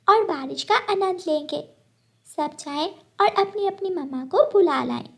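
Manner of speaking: put-on a proud young cook inviting all; proud little girl. Gudiya tells her friends to bring their mothers, cheerful little girl voice.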